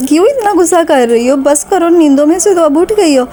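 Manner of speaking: light mock exasperation; mild remonstrance. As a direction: gently tell a cross child to stop. Retold remonstrating with cross child.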